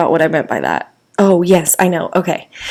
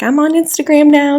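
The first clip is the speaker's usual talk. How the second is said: lightly voiced, higher-pitched excited announcement; imitating Terry; 8 semitones higher than usual. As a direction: quote her in a higher voice. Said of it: "Like, Terry's like".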